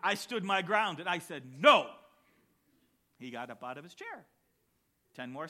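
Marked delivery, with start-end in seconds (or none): 1.6-1.9 a loud, flat refusal; defiant no. Retold or imitated. Little boy defying his father, a loud no. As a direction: plant your feet and refuse him loudly.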